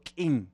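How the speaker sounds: "kin" with the Tzeltal glottal catch on the k; glottalized kin. Shown as a demonstration. Speaker teaching a Tzeltal word: "kin" with a glottal k. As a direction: clip "kin" with a glottal stop. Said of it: "Y decimos, por ejemplo".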